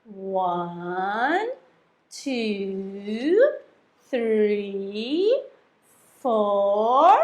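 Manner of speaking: slow counting with pauses; paced counting with eyes closed. Shown as a demonstration. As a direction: count slowly so they follow. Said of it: "let's count to four".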